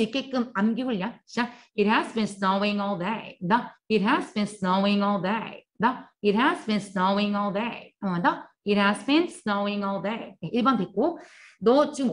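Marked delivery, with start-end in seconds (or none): 1.8-10.4 천천히 한 단어씩 따라 하게 읽기; 학생들이 따라 하도록 또렷하게; 또박또박 시범 낭독. Shown as a demonstration. Repetition drill. (따라 하기용 느린 시범 낭독)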